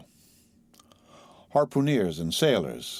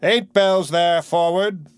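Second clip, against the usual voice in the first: slow, louder, higher hail across the deck; calling out; 10 semitones higher, 7 dB louder, slower than usual. A narrator's reading. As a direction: ring it out from the quarterdeck. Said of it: "The mate's voice ... rings out".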